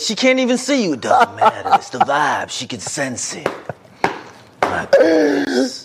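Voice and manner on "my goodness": laughing. Real, not acted. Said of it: "that is hilarious".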